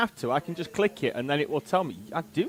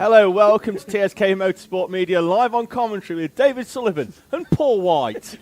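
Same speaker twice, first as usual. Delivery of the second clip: commentator impression; 5 dB louder than usual. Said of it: "I get my Paul White impression on".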